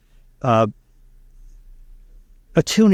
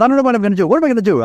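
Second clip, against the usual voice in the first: put-on Spanish accent; 10 semitones higher, much faster than usual. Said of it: "he has a very heavy Spanish accent".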